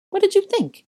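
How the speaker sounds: very high, loud, incredulous retort; shrieked scornful comeback; shooting back. A narrator's reading. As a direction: throw the question back at her. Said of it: "Bellatrix shot back".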